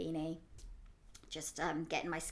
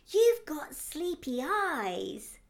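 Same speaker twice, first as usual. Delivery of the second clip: put-on slow, higher little-boy voice, drawn out; imitating a child; 8 semitones higher, 5 dB louder, much slower than usual. Aunt voicing her little nephew, slow and high. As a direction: lightly voice the nephew, slow and wondering.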